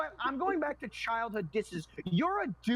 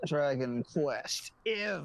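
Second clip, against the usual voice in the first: odd drawn-out delivery; 4 semitones lower, much slower than usual. Real, not acted. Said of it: "Why'd you say it like that?".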